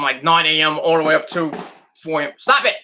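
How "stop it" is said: yelling at fireworks. Real, not acted. Yelling at fireworks outside window.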